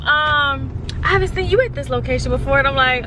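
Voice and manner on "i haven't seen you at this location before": a lightly voiced smooth-talking manager, pitched up; mock manager. Mocking the manager who flirts with her, pitched up. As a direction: tease the manager's pickup line. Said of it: "He gonna sit here and talk about some".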